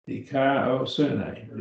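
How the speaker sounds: Dikaiosune drawn out in separate syllables; slow, syllable by syllable. Shown as a demonstration. Teacher showing how to pronounce a Greek word, slowly by syllables. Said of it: "break it up into the syllables and pronounce them slowly".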